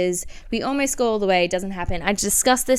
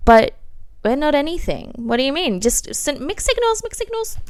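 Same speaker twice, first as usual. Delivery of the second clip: mock exasperation; 7 semitones higher, 3 dB louder than usual. Retorting to jealous guy.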